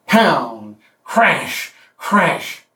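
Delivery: "crash" said like waves crashing; mock crashing waves; surf sound. Shown as a demonstration. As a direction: imitate the sea pounding. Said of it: "As the sea is there".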